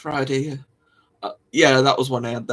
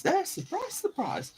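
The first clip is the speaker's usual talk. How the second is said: sarcastic surprise; 7 dB quieter than usual. Acted. Sarcastic repeat, fading.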